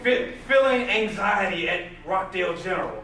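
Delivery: mocking social media posts with laughs; laughing mockery. Real, not acted. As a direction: poke fun while laughing.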